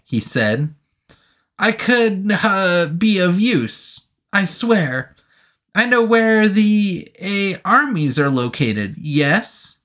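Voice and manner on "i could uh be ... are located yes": higher, eager nervous soldier. Acted. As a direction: swear it eagerly, end on a question. Soldier pleading.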